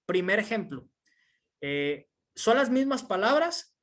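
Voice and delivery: normal talking voice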